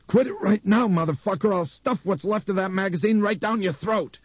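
put-on old man threatening a rude boy, furious; angry threat. A narrator's reading. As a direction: snarl the threat at the kid. Gaffney threatens Craig angrily.

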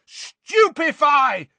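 high, loud, stretched-out battle yell; shouted incantation; yelled spell. A narrator's reading. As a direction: yell the spell with full force. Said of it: "yelled Harry".

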